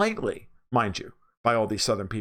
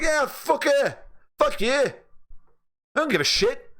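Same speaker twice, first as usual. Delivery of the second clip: imitating Brits; 13 semitones higher than usual. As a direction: shrug it off like a cheerful Brit. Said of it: "Most Brits would be like".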